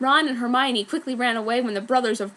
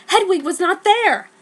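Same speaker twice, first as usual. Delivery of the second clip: higher and louder dismay; shocked; 8 semitones higher, 8 dB louder than usual. A narrator's reading. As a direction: gasp it out in shock. Discovers owl missing.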